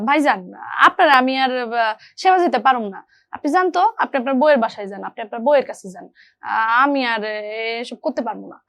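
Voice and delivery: acted, mildly jabbing dialogue in colloquial dialect; needling refusal. Shown as a demonstration. Younger brother's wife refusing to nurse brother-in-law, lightly acted needling. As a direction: brush off a dependent in-law with a dig. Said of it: "খোঁচা মেরে কথা বলা".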